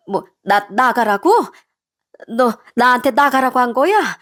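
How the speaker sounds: faltering disbelief, then rising indignation; stunned mother-in-law. Acted. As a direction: question your son as if you misheard.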